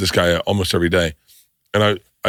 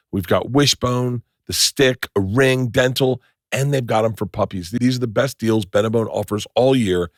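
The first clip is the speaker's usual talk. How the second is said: upbeat podcast ad read, selling the product; sponsor ad read. Acted. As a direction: pitch the dog chews like a host ad spot. Host reads sponsor ad.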